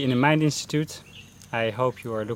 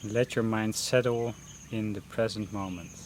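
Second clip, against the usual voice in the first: unhurried meditation guidance with long pauses; guided meditation; 10 dB quieter than usual. Real, not acted. Teacher leading beginners through a mindfulness breathing session, guided meditation voice. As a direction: guide them gently into breath focus, pausing between phrases.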